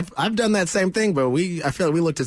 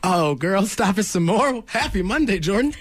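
playful; 5 semitones higher than usual. Pretend. Playful mock flattery.

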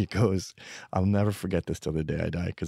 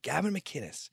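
super sarcastic; 12 semitones higher than usual. Retold or imitated. Enemy at the bar greets Gavin, super sarcastic. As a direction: greet him like you loathe him. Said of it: "like, super sarcastic".

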